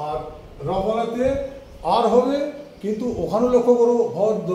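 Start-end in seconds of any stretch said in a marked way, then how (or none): 4.2-4.5 "ভদ্র" drawn out as "bhod-dro"; "ভদ্র" in two stretched syllables, ending on o; final o sounded. Shown as a demonstration. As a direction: hold the last o of "ভদ্র". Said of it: "লাস্টে আসছে অ".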